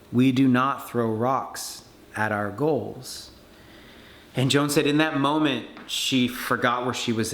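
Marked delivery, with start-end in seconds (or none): 0.1-3.3 slow tender repeat. Retold or imitated. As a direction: let it sink in gently. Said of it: "whispered into her ear and said".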